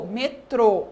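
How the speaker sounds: METRÔ ending in a closed "oh"; closed final O. Shown as a demonstration. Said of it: "fica um som mais fechado".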